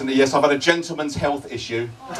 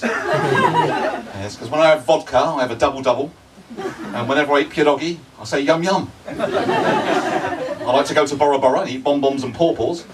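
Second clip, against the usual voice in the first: silly repeating voice; 2 semitones lower than usual. Retold or imitated. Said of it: "do you know why that is?".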